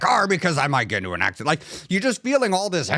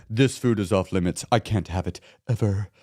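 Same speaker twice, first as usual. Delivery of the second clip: stern self-rule; 8 semitones lower than usual. Acted. Voicing a stern self-imposed food rule.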